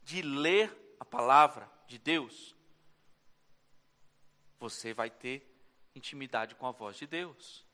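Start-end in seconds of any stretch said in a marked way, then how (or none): 0.0-2.6 slow emphatic repeat. Shown as a demonstration. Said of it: "repeated slowly".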